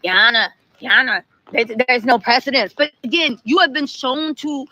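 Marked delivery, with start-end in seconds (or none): 0.0-2.7 mildly barked courtroom protest; mock barking objection. Lawyer objecting to the judge again, mock barking. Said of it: "like, barking again".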